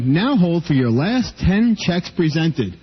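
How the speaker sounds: slow robotic recorded-menu voice; automated phone voice. Retold or imitated. Mocking the bank's recorded phone voice. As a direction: read it like a machine menu, slowly.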